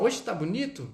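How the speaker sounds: "Hoje tá bonito" as a question with emphasis on "Hoje"; questioning intonation. Shown as a demonstration. Teacher acts out checking the weather, questioning intonation. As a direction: ask "Hoje tá bonito" as if wondering about the weather. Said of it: "a entonação".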